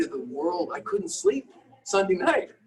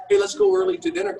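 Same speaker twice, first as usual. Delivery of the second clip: quoting wife; 13 semitones higher, 7 dB louder, faster than usual. Retold or imitated. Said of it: "Dawn's saying".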